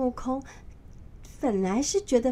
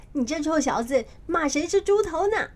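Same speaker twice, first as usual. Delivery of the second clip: mildly annoyed; 6 semitones higher, 3 dB louder than usual. A narrator's reading. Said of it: "就有点生气地说".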